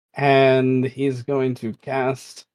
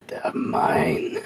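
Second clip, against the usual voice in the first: whispered shout; 5 dB quieter than usual. Acted. Beetle man cries out.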